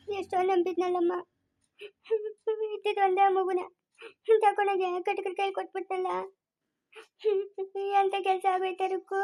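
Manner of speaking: soft, sorrowful lament between sobs; grieving lament. Acted. Mother mourns the only child she handed over, grieving. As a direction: lament softly, catching your breath.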